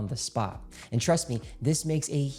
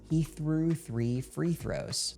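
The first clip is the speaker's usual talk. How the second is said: slow tongue twister; 3 semitones higher, much slower than usual. Shown as a demonstration. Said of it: "The first one is".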